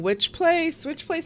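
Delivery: high, anxious repeating; frantic repeated question. Retold or imitated. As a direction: fret it out twice. Anxious searching for a restaurant.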